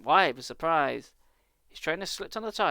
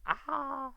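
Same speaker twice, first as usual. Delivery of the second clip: high mock scream; 10 semitones higher than usual. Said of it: "Hannah screamed".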